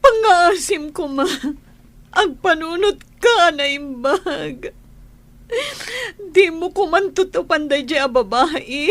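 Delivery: desperate wife pleading with her husband. Acted.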